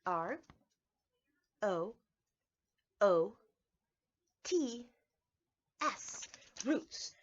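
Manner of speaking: letter by letter, slow and clear; teacher spelling out a word. Shown as a demonstration. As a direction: spell each letter with a pause. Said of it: "word is roots".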